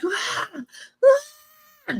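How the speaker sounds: high-pitched mock scream, held back in volume; imitated scream. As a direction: imitate a woman's long, thin scream. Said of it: "is screaming at me".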